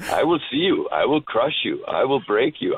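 lightly voiced cold Russian fighter; Ivan Drago. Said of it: "That's Ivan Drago right there".

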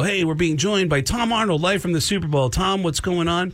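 light mock radio host voice; radio host intro. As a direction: announce the guest like a DJ. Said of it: "and they go".

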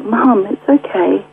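slow, gentle reassurance; calm her down slowly; reassuring. Retold or imitated. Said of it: "I'm like".

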